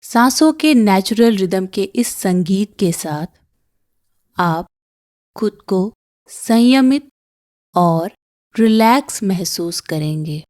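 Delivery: calm meditation guide with long pauses; unhurried breathing-exercise voice; guided meditation. Acted. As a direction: guide them gently through each breath, pausing between phrases.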